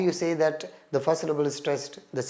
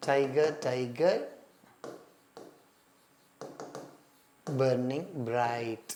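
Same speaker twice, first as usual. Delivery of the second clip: slow poem reading; 2 semitones lower, much slower than usual. Shown as a demonstration. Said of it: "చూడండి, ఇప్పుడు ఈ line రాసుకున్నాం".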